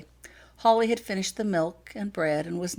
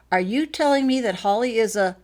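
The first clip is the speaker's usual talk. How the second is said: alarmed demand; 6 semitones higher, 6 dB louder than usual. Acted. Laurel's alarmed question.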